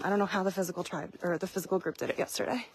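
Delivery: breathless and fast from the uphill walk; panting out of breath between words. Real, not acted. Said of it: "it's hard to talk and walk up a hill".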